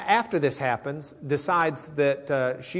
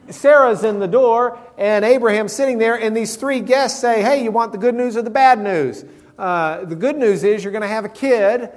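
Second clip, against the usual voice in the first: louder, higher, building excitement; animated storytelling; 7 semitones higher, 7 dB louder than usual. Real, not acted. Preacher excitedly telling the guests' good news. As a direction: tell it like big news. Lively retelling, loud and high.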